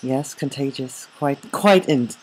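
mock English accent, agreeing; put-on English accent. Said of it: "Why are you speaking in that accent?".

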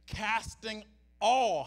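"all" stretched and leaned on; stress on ALL. Shown as a demonstration. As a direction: draw out "all" slowly with weight. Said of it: "how much?".

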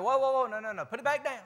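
mock alarm. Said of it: "And it's like".

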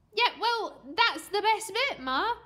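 put-on high, loud cocky kid; brash child's excuse; bluffing boy. A narrator's reading.

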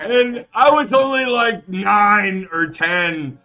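laughing. Real, not acted. Laughing while retelling the joke.

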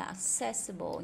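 "accessible" stressed on CESS; second-syllable stress. Shown as a demonstration. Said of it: "nhấn âm thứ hai khác nè". (nhấn âm thứ hai trong "accessible")

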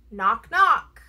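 loud double knock; door knock. A narrator's reading. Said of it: "like a hand on a door".

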